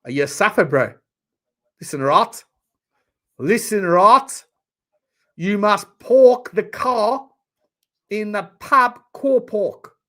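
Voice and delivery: broad, hammed-up South African accent; mock South African, drawn out and loud. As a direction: put on an exaggerated South African accent, rising in pitch and volume. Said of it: "You must be, you must be South African".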